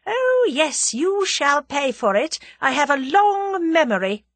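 emphatic, malicious villainess; cold malignity. A narrator's reading. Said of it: "The cold malignity of her manner".

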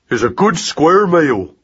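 slow, careful parroting; Magnus echoing. A narrator's reading. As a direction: copy the words slowly. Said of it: "said Magnus".

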